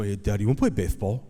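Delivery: quick imitated child's lisp; lisping four-year-old. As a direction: lisp it as a little boy asking dad. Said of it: "he has a lisp right now".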